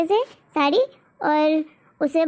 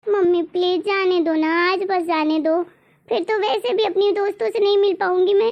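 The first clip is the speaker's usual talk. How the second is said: pleading daughter. Acted.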